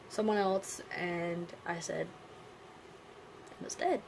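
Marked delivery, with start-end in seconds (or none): 3.6-4.0 dead jumps high and breaks; breaking voice. Retold or imitated. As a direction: let the voice crack on dead. Telling someone else the news.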